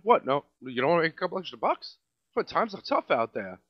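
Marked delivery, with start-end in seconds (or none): 0.0-1.9 mocking manager. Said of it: "Could I sodomize your children".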